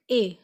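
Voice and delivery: "A" as a long, pure ay; French é sound. Shown as a demonstration. Teacher showing learners the accent aigu sound, "A" as clear ay. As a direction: say "A" like the French é in été. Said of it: "It sound like".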